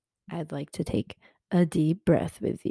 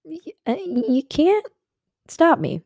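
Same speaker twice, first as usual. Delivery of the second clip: much higher and louder, nearly shouting in triumph; triumphant cry; 11 semitones higher, 7 dB louder than usual. Real, not acted. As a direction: throw it out like a victory yell. Triumphant climax of pep talk.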